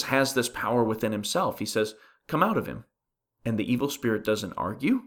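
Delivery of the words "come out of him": higher-pitched brief order; a firm retold command; authoritative command. Jesus ordering the evil spirit out, with authority. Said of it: "again, with authority".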